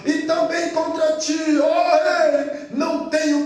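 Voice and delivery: confident proclamation with rising shout; Daniel's firm voice; firm strong voice. Acted. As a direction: declare innocence boldly. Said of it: "aquela voz firme, forte".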